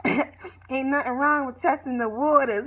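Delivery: slow, lightly voiced older mom, teasing; a hint of sassy mama drawing it out; Mama Shirley impression. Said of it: "Here go Mama Shirley".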